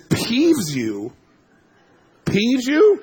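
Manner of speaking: incredulous echo. Retold or imitated. Mocking buddy's mild word, incredulous. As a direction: repeat in disbelief, climbing high and loud.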